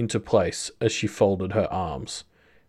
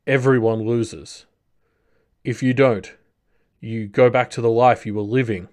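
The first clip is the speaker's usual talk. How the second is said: pained, strained plea; grunting in pain; 4 dB louder than usual. Acted. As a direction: plead through pain after a fall. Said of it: "grunting from pain as the fall set in".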